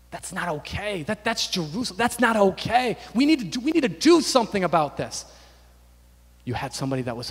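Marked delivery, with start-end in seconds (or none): 0.1-5.2 growing resolve. Retold or imitated. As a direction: build from hushed protest into urgency. Voices Nehemiah's growing resolve.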